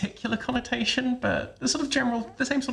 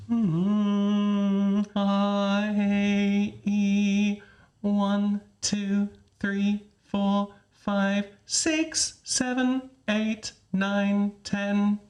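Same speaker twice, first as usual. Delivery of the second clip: counting on one tone with a lift on six; count, lift, then step down; counting with pitch lift; much slower than usual. Pretend. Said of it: "go on the G".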